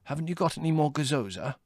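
high, hoarse plea. A narrator's reading. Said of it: "inquired Adrian hoarsely".

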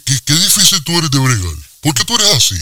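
high, fed-up whine; exasperated. Acted. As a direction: plead in mock frustration. Exasperated comic quarrel. (exasperado y agudo)

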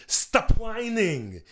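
Kindergarten Cop quote. Retold or imitated. Arnold scolding the hecklers, slow and high. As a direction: stretch it out like a cop telling kids off. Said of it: "I could say from Kindergarten Cop".

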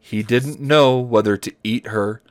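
measured, deliberate reading aloud; story narration. Acted. Host reads dinosaur romance to friends, story narration. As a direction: read each phrase out carefully.

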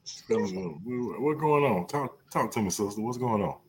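softly concerned check-in. Pretend. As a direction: coax them gently to open up. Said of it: "It's the concern".

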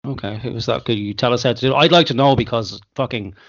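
glitchy robotic voice over a bad call; robot voice from connection breakup. Real, not acted. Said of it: "sound like a robot".

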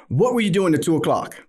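pressing question. Retold or imitated. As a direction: press her for an answer. His own pressing question on phone.

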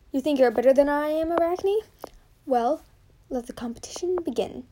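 a goddess throwing down the gauntlet; goddess proclaiming. Acted. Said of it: "Athena proclaimed".

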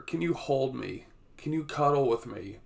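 put-on high, soft, pleading little boy; imitating a sick child. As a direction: plead softly like a sick kid. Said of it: "and he's crying".

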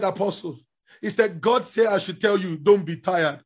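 a hint of a quiet prophetic word; lightly voiced young man, hushed; hushed retold word.

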